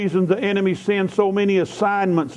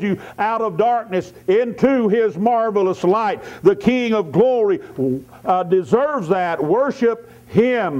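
raised, emphatic preacher's delivery; fervent preaching; 3 semitones higher than usual. Acted. Preacher urging the congregation to worship the King of Glory, fervent. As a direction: build praise phrase by phrase.

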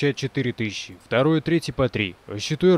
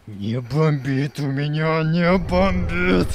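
raging gamer; much slower than usual. Acted. Denying being enraged.

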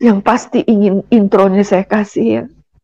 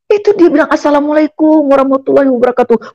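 eager explanation; 6 semitones higher than usual. Retold or imitated. Explaining the greeting to father.

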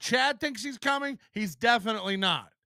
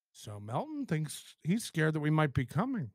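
mock quote; 8 semitones lower, 7 dB quieter than usual. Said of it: "Red Bar pauses it and goes".

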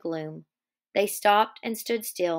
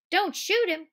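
much higher scornful cry; cried; 9 semitones higher than usual. Acted. Curly mocking George's plea, high scornful cry. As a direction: throw the words back mockingly. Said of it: "Curly cried".

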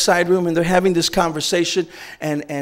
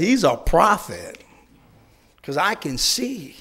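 smiling calm reply; slower than usual. Retold or imitated. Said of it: "the man just smiled and said".

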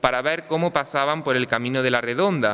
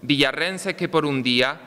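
town crier. Acted. Recited festival poem, pregón.

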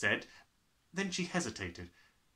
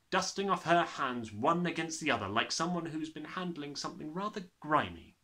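usual speaking voice

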